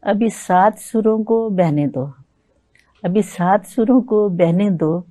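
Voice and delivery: slow, measured poem recital; stately nazm recitation. Acted. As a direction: recite it like at a mushaira.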